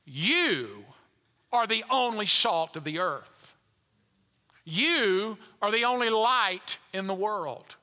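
emphatic reading of "You are the only light in the world"; scripture read with emphasis. Shown as a demonstration. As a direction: stress on "only" and "You", slow and weighty. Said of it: "It's written this way".

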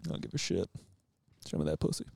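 Bill Clinton. Acted. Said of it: "Bill Clinton out of Bunnings".

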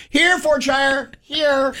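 high, slow calling voice; calling a pet. Retold or imitated. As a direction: call him over like a dog. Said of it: "you wanna show 'em".

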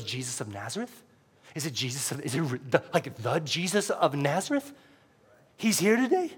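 hushed, halting disbelief rising into a question; incredulous. Acted. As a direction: blind man daring to believe it, softly. Blind man's hushed, incredulous question.

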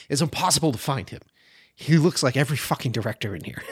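half-laughing through the quote; laughing retold quote. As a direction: laugh as you deliver the punchline. Victor's retold joke.

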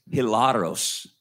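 Spanish-accented hilaros with a tapped r. Real, not acted. Preacher reading a Greek word to the congregation, in a Spanish accent. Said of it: "I said that with a Spanish accent".

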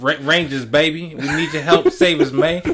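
lightly voiced meme impression; Terrence Howard. Pleading to the Rangers as Zordon, light impression. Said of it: "with, uh, Terrence Howard. He was talking like that".

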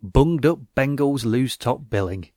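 slow, broad northern English headline read; hammed-up northern English announcer voice; northern English accent. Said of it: "I did a northern accent for that".

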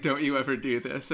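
imitated Dutch accent. Quoting a self-defense video to tease a friend, Dutch accent. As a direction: put on a mock Dutch accent. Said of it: "in a Dutch accent".

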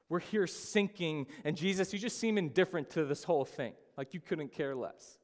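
mildly bitter accusation, voicing the disciples; resentful, bitter complaint. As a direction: reproach Jesus with a touch of resentment. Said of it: "it's resentful even".

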